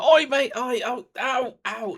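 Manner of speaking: loud, high yelps of pain from a burning neck; the stung thief yelling as holy water burns, loud pained yelping. Acted. Shout out in sharp pain, high and loud. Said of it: "he kind of yells out".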